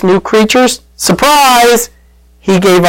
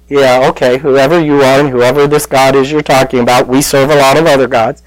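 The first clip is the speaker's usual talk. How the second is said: dismissive; 3 semitones lower than usual. Retold or imitated. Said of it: "I would have just said".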